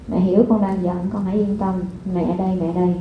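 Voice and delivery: put-on calm the angry child gently; a mother calming her upset child; tender comfort. Shown as a demonstration. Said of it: "Mình chỉ nói là".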